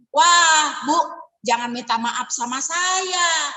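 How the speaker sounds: mildly voiced scornful salesperson; condescending agent. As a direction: agent shaming a client who declined. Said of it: "nggak kayak gitu ngomongnya".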